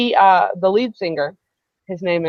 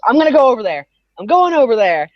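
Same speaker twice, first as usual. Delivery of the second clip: bold resolve; 3 semitones higher, 6 dB louder, faster than usual. Retold or imitated. Friend Janie announcing her resolve, retold.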